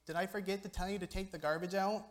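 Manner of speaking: mock-innocent question from a nagging mom; sarcastic mom. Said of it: "when my mom tells me".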